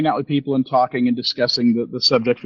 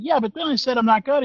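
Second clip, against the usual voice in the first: flustered self; 11 semitones higher than usual. Retold or imitated. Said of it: "I was like".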